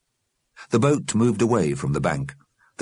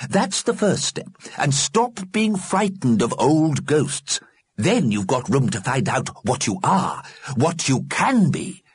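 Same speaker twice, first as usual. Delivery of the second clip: put-on earnest old man voice; 10 semitones higher than usual. Mr Fletcher explains.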